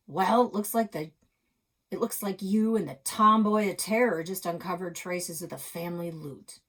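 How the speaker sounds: put-on loud, booming old-man voice; loud again. Old neighbour booms at the boy and the tomboy of terror. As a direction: boom it out, teasing the kids. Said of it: "his voice got loud again".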